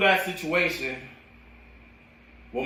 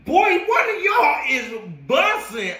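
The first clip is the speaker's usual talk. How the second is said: high-pitched laughing shout, slow. Real, not acted. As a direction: burst out laughing while calling out a teammate's bad breath. Laughing at a teammate's bad breath.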